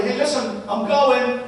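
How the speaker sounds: hint of a rushed parent yelling; mock yell. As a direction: mildly yell a goodbye on the way out. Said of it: "you yell at everybody".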